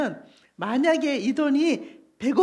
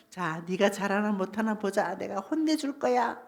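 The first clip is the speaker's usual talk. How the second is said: lower, softer mild threat; mock stern teacher; 5 semitones lower, 6 dB quieter than usual. Teacher threatens pupils before a school test, mock stern. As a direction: lightly play a threatening examiner.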